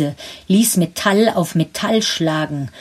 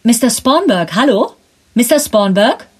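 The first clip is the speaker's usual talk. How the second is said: higher, louder anxious calls into the phone; worried calling; 6 semitones higher, 4 dB louder than usual. Acted. Caller fearing for Spornberg on the line, worried higher calls. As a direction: call his name again and again, growing worried. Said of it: "rief die Stimme besorgt".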